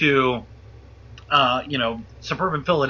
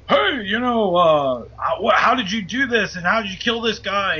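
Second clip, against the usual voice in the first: accusing cop; 3 semitones higher than usual. Retold or imitated. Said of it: "he is giving me shit".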